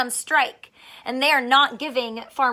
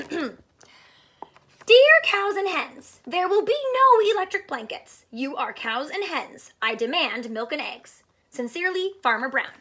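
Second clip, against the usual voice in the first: stern farmer's letter; 3 semitones higher than usual. Acted.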